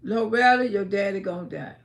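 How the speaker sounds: low, falling voice delivering a warning; voice of premonition. Retold or imitated. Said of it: "a voice came to me plain as day".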